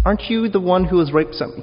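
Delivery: the bystander who suddenly recognizes him; surprised accusation. Acted. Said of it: "Someone's beside Peter and says".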